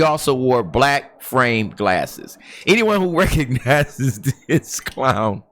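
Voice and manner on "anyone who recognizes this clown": laughing mockery. Real, not acted.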